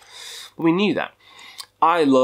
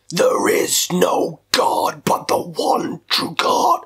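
whispered lyric; 4 semitones higher, much slower than usual. Retold or imitated.

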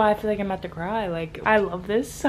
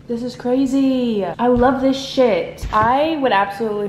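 thrilled; 5 semitones higher, 7 dB louder than usual. Real, not acted. Reader thrilled by what just happened in her book. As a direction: savour every word, thrilled.

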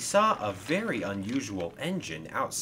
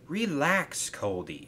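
calm; 5 semitones higher, slower than usual. Acted. Catherine reassures nervous Coldy before the trip, calmly. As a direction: soothe a nervous friend. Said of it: "she said calmly".

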